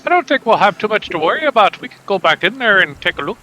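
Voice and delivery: hammed-up bad Scottish accent; a clumsy fake Scottish brogue. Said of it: "I'm gonna make him do a bad Scottish accent".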